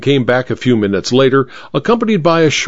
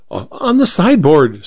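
a light stammer, stumbling on the first word; flustered vicar stammers where the photo is, lightly stammered; 4 semitones higher than usual. Acted. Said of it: "stammered the vicar".

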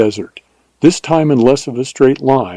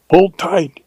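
raised urgent warning call; warning cry; 6 semitones higher than usual. A narrator's reading. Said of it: "he cried warningly".

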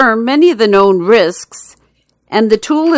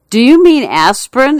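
higher, louder questioning pharmacist; puzzled pharmacist; 5 semitones higher, 3 dB louder than usual. Acted. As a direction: ask it like a doubtful pharmacist.

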